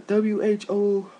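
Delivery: high, slow, spelled-out gossip; mocking catty girls. Mocking the show's girls gossiping, high and slow. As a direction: sneer it like a catty girl. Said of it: "they're, like, yelling".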